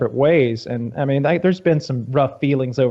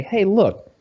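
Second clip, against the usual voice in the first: 1 mock advice; 8 semitones higher than usual. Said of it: "and then say".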